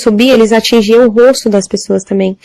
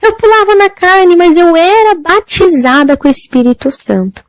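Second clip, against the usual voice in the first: high desperate plea; anguished cry; 8 semitones higher than usual. Retold or imitated. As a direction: wail "Eu pulava na carne" like a soul in torment.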